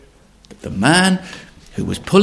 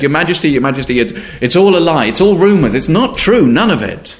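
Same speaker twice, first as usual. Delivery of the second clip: panicked pleading; 6 dB louder than usual. Acted. Man frightened pleading.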